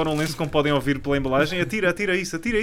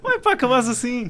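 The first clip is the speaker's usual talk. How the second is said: high laughing protest; 10 semitones higher than usual. Real, not acted. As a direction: laugh while complaining.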